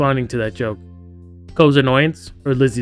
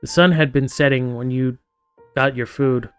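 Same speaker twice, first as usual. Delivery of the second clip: story narration. A narrator's reading. Reads game narration aloud.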